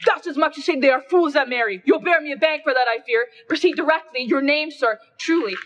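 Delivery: menacing mob. Acted. Mob citizen bullying Cinna the poet, menacing and loud. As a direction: lean on him like an angry crowd.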